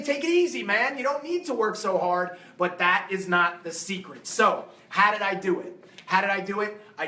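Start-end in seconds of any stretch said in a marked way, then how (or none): 0.0-2.4 lazy coworker. Retold or imitated. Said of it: "most of the world's gonna say".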